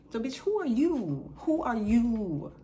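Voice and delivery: loud high mock demand; imitating a rude demand; mocking shout. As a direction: throw it back at her mockingly.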